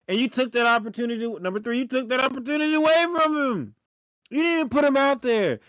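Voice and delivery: exasperated shout at the coach; heated rant. Real, not acted. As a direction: call him out, voice up high. Ranting at coach over decision.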